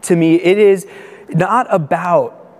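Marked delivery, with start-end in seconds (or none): 0.0-0.4 sincere. Retold or imitated. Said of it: "simply look into another person's eyes".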